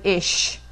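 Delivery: ish with a plain English sh ending; dreaded ish. Shown as a demonstration. Teacher mocking the ish students use. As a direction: say ish, swapping the ch for sh. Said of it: "the dreaded".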